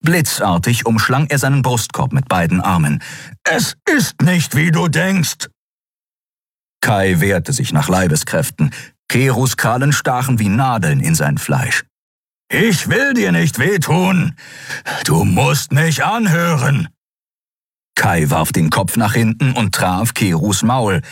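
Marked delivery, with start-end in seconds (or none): 3.4-5.5 high, strained insistence; urgent creature plea. A narrator's reading. Creature pleads while restraining man. 12.5-16.9 high, slow creature insistence; urgent plea. A narrator's reading. Pleads with man in his grip.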